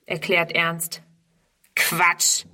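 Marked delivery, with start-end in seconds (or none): 1.7-2.4 jeering. A narrator's reading. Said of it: "höhnt ein dritter".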